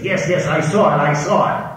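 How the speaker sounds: disgusted. Acted. Other guy answering his stuttering companion, disgusted. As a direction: cut off the stutterer impatiently. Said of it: "the other guy's disgusted".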